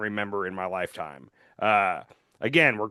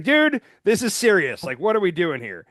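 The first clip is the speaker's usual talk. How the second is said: imitating Klobuchar; 4 semitones higher, 3 dB louder than usual. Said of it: "And he's like".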